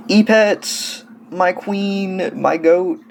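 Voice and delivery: E-Pets called out loud like a devoted fan; excited gush. Real, not acted. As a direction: hail them like a superfan. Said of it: "I don't know why I said that".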